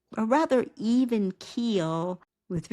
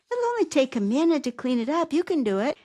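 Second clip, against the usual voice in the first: higher and louder, cheering tone; encouraging; 6 semitones higher, 4 dB louder, faster than usual. Shown as a demonstration. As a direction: pump your character up. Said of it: "this one is encouraging and promoting".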